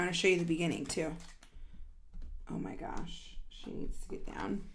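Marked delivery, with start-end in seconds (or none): 2.5-4.6 whispered aside. Real, not acted. Aside about the cat.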